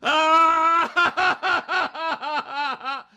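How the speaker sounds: high, loud, slow wailing sobs; imitated boo-hooing. Preacher imitates a proud man boo-hooing in wails. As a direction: mimic a grown man sobbing in the glory. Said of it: "He's boo-hooing like".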